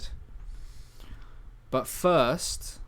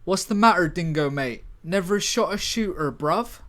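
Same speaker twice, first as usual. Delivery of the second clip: loud, higher, mocking London voice; cheeky London taunt; 4 semitones higher, 4 dB louder than usual. Teasing his teammate Dingo under fire, in a cocky London accent.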